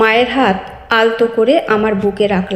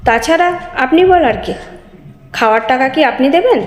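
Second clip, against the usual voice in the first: higher, insolent retort, a bit fast at times; sneering reply; 5 semitones higher than usual. Acted. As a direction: talk back with a contemptuous sneer. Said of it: "মুখ বাঁকিয়ে উত্তর দিল".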